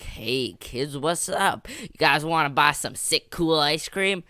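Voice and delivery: a lightly voiced, hyped-up old vendor, slow on kids; overly energetic ice cream man. Old ice cream man hyping up kids, mildly over-energetic voice. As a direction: play the ice cream man as way too pumped. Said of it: "he's way too energetic".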